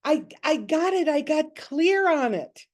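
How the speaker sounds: like a sweet wife telling her husband the good news; sweet "honey" quote. Retold or imitated. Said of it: "she was saying".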